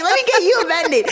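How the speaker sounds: imitating mom cracking up; high, quick words through laughter; laughing. Daughter retelling mom laughing at her injury, laughing hard. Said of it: "She's all laughing on the, on the thing".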